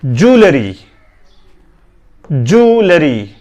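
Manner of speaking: ज्वेलरी as "joo-le-ree"; three syllables in ज्वेलरी, no y glide; correct pronunciation. Shown as a demonstration. Teacher models it for learners, correct pronunciation. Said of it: "correct pronunciation".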